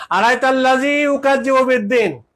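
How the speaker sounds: slow, deliberate verse with weight on ইউকাজ্জিবু; slow recitation. Shown as a demonstration. Preacher repeating the verse slowly so listeners catch it. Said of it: "repeats the verse slowly".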